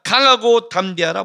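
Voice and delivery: slow, forceful "강하고 담대하라"; emphatic repeated command. Acted. Preacher quoting the third command, "강하고 담대하라" stressed firmly. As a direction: hit "강하고" and stretch "담대하라". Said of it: "강조가 세 번 말하면 최상급이에요".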